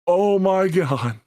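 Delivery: drawn-out stunned "oh my God"; slowly, in awe; slow amazed gasp. Retold or imitated. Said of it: "I was like".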